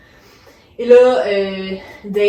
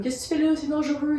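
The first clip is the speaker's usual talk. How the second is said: angry; 7 semitones higher, faster than usual. Retold or imitated. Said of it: "il est vraiment fâché de la voir".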